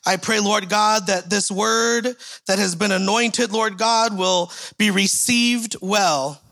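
building, fervent prayer voice that rises toward the middle; public prayer. Acted. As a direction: pray over the congregation, lifting up toward the middle and settling at the amen. Leads a prayer.

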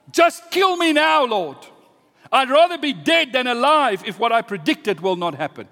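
high, loud despairing protest; explode, then press on heatedly; angry outburst. Acted. Jonah asks the Lord for death, angrily. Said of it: "he became very angry".

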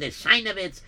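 "Sheinowitz" in a Yiddish accent, SHAI-no-vitz with a v. Shown as a demonstration. Narrator shows the Yiddish pronunciation, Yiddish accent. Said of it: "If you say with a Yiddish accent".

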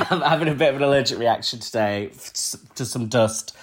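blocked-nose nasal voice; stuffy nasal tone. Real, not acted. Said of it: "I apologise for my nasal voice".

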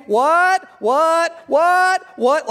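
high, loud repeated shout; comic imitation of a family yelling; yelling back. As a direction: holler back from another room. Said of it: "they just were a yelling family".

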